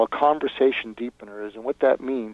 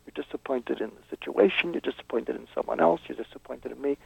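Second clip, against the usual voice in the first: softer and softer, coaxing the feelings out; soft empathetic probing; 7 dB quieter than usual. Shown as a demonstration. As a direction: gently draw out the disappointment. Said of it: "you say".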